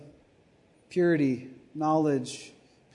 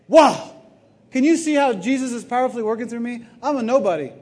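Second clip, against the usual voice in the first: mock humble preacher; 4 semitones higher, 7 dB louder than usual. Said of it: "they say".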